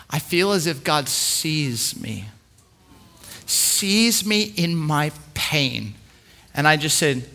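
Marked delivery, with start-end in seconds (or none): 0.1-6.0 slow, softer, tearful-leaning quote; retold crying. Grieving mother thanking them for the book, a touch of tears. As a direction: lightly voice her breaking down, slowly. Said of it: "Breaks down crying".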